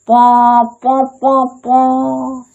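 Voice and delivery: imitating a gently pressed harmonium with short "पा" puffs; harmonium struck softly. Shown as a demonstration. Teacher mimics a softly played harmonium for the class, short "पा" puffs. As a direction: play the soft little toots of a gentle harmonium. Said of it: "कम धीरे धीरे मारिएगा".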